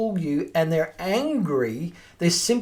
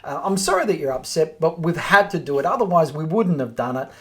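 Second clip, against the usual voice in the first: cool, calm, professional; 2 semitones lower than usual. Shown as a demonstration. Agent answering an angry owner, calm and professional. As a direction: soothe an upset landlord without giving ground. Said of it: "Just be cool, calm, professional".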